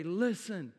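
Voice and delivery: heavenly Father promising never to leave, slow and reassuring; God comforting. Acted. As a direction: speak as the Father holding his child. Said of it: "your heavenly Father to come around you today and say".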